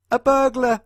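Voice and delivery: sudden loud high cry; dramatic reveal. A narrator's reading. Narrator crying out the burglar reveal to children. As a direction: burst it out like a shock.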